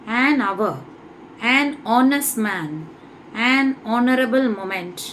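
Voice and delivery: "hour, honest, honorable" starting on open vowels after "an"; silent h. Shown as a demonstration. Teacher reading examples of an before silent h, careful vowel onsets. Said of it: "ஹெச்சை இந்த வேர்ட்ஸ்ல pronounce பண்ணக்கூடாது".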